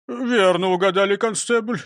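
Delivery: high, forceful blurt. Acted. Disguised robber seizes policeman's guess, blurting eagerly. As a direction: jump on the answer, loud and high. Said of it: "выпалил Крендель".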